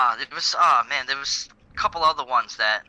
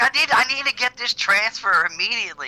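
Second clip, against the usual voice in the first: mock urgent request; 7 semitones higher than usual. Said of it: "He's like".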